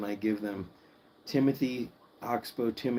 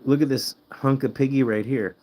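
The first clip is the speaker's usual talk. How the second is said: excited pet talk; 3 semitones higher, 4 dB louder than usual. Real, not acted. Greeting the guinea pigs excitedly.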